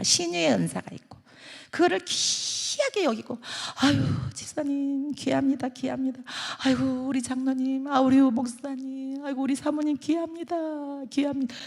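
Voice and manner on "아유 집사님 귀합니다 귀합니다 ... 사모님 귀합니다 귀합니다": affectionate admiration. Acted. Congregant honoring the deacons and pastors, soft tender admiration. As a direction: fuss tenderly over each one, softly. Voices members honoring one another.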